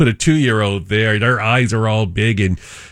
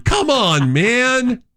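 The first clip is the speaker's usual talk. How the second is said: mock exasperation; 10 semitones higher, much slower than usual. Real, not acted. Father complains to co-host.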